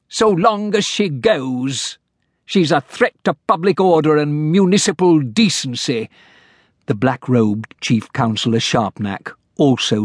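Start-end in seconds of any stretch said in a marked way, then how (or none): 0.1-6.1 dismissive mayor. Acted. Mayor character voice.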